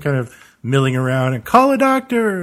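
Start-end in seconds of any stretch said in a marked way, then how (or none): 1.4-2.4 urgent call. Acted. Mourners panicking at the funeral.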